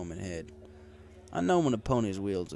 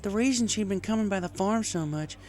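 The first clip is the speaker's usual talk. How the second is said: higher mare voice, a touch of groan; groaning farm mare; 11 semitones higher, 4 dB louder than usual. A narrator's reading. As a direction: grumble it out as the jilted mare. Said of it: "she groaned".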